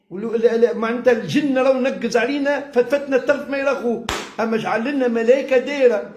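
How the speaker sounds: ordinary delivery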